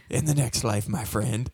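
soft, fading goodbye; tender farewell. Pretend. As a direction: say goodbye to a dying friend. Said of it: "I'll be like".

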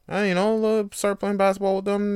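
usual speaking voice

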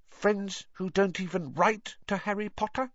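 high elf voice, slyly probing; Dobby, sly. A narrator's reading. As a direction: ask it slyly, as a little elf. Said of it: "said Dobby slyly".

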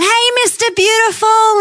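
high, cheery mock call across a market; retold yell. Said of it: "everyone's yelling out".

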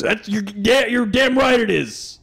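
Alex Jones voice. Pretend.

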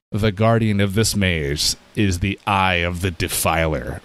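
lightly voiced ominous game announcement, low; a hint of a solemn, low warning; level narrator. Game warning the player about a maze guardian, low and solemn. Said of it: "the level starts off by telling you".

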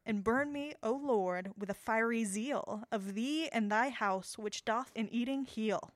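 slow, solemn poetry reading; sonnet voice. Shown as a demonstration. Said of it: "Gonna get my sonnet voice going".

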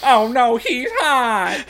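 high, loud, laughing through it; laughing swoon. Acted. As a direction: squeal it while cracking up. Quoting the scene while laughing.

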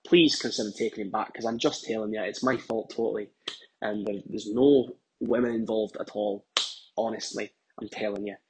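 low, softening plea; subdued, sincere-sounding confession; earnest appeal. Acted. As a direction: plead his case quietly, owning the blame. Appeals to the friend's wife directly.

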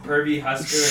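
"Herbie" said with a P at the front; quick "Herbie" with P replacing H; H swapped for P. Shown as a demonstration. Host repeats his mascot pun, "Herbie" starting with P. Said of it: "replace the H with a P".

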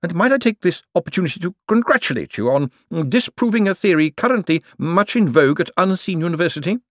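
high, scornful banker voice; withering put-down. A narrator's reading. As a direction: cut him down with sarcasm. Bent's sarcastic rebuke of Moist.

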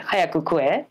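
"Hayaku kue" tossed off rough and casual; blunt, offhand "Hayaku kue"; rough casual Japanese. Shown as a demonstration. Showing a friend the rough casual version, blunt. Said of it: "say in a real rough format and casual way".

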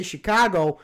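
"Chicago" with a drawn-out, odd O at the end; long weird final O. Shown as a demonstration. Showing friends the accent's weird O at the end of "Chicago". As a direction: stretch the last O of "Chicago". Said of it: "you get that weird O at the end".

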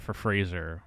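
low, breathy dread reveal; whispered. Real, not acted. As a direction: whisper it like a dark secret.

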